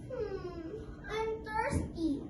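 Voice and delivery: soft, slow, thirsty little hum; thirsty murmur. Acted. Mouse Deer to himself, soft and slow. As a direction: sigh it out like a parched deer.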